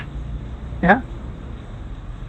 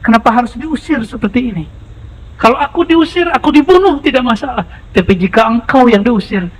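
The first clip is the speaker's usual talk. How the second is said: tearful plea. Acted. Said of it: "Abu Bakar dilihat Nabi nangis".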